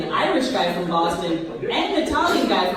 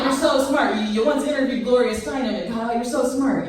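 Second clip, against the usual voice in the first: mom's gushing praise; 4 semitones higher than usual. Retold or imitated. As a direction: gush over her like a proud mother. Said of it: "She's like".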